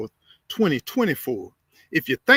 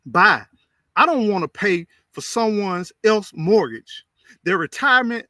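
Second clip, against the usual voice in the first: emphatic reading; 3 semitones higher, 4 dB louder than usual. Shown as a demonstration. Reading a viewer's comment aloud with strong emphasis. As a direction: punch "Buy" hard, then press each complaint firmly. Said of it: "but I'm reading it like this".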